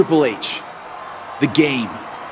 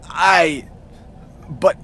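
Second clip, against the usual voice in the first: halting, stunned, rising to a higher fired; stunned stammer; 5 semitones higher, much slower than usual. Acted. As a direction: stumble over the words in shock. Stammering after being threatened with firing.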